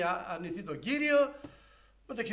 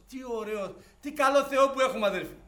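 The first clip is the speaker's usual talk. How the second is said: first praise; 5 semitones higher, 7 dB louder than usual. Real, not acted. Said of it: "first praise".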